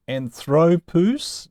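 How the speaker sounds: "anthropus" drawn out slowly, stressed on "thro"; stress on second-to-last syllable. Shown as a demonstration. Teacher reciting the noun pattern, middle-syllable stress on "anthropus". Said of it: "now oo is always long".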